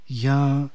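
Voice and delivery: a long, stretched-out "Για"; a lingering, hesitant "Για"; drawn-out interjection. A narrator's reading. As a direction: stretch the "Για" slowly and softly. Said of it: "αφήνει να μακρώσει το επιφώνημα".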